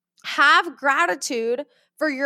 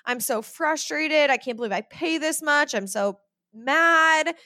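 mock stressed complaining; 3 semitones higher, slower than usual. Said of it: "If you are like".

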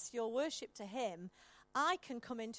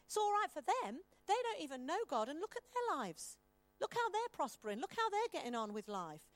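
higher, resentful mutter about the wicked; envious grumble; 4 semitones higher than usual. Retold or imitated. Preacher voicing the envious believer, grumbling higher. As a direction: grumble like the world is unfair. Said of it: "you look around and you go".

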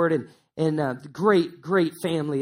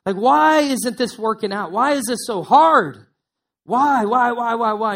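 anguished questioning; 3 semitones higher, 4 dB louder than usual. Retold or imitated. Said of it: "And you're wondering, like".

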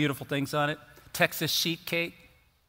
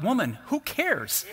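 higher, slow, laughing through it; laughing tease; 6 semitones higher, slower than usual. Retold or imitated. Family laughing at mom in the kitchen, teasing. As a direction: tease her while cracking up.

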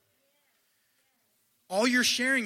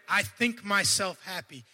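how he reads it; slower than usual. Shown as a demonstration. Preacher showing how he reads Paul's reply, gently excited. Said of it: "But that's how I read it".

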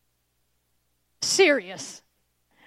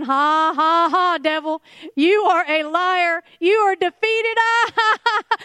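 hammed-up triumphant laughter breaking into the taunt; mock laughing; 2 semitones higher, 4 dB louder than usual. Preacher shows believers laughing at the devil, mock laughing taunt. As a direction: taunt with loud, forced laughs. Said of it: "you are just rolling laughing".

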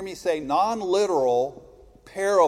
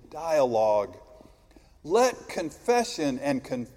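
preaching; 2 semitones lower than usual. Acted. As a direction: intone it like a prayer. Liturgical litany continues.

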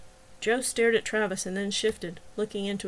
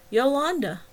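patient repetition; 6 semitones higher, 5 dB louder than usual. A narrator's reading. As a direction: patiently repeat YOLANDA, a little higher and louder. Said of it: "Travis said patiently".

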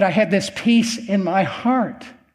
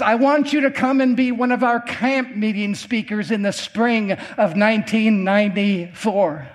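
lightly imitated Ghanaian accent. Pastor inviting a camp meeting speaker, light Ghanaian accent. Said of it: "He's talking with an accent".

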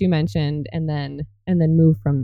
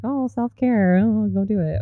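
mocking a cliché; 3 semitones higher than usual. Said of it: "we hear all these phrases like".

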